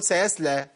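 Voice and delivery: quick thin "sayasleh", all light sounds; thinned sad, wrong. Shown as a demonstration. Teacher showing a mistake, "سيسلى" with weakened s. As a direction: say "سيسلى" with a plain light s in place of the heavy ص. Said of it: "ما تنفعش".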